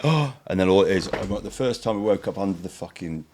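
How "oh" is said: winded gasp. Retold or imitated. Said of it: "you're like, gasps".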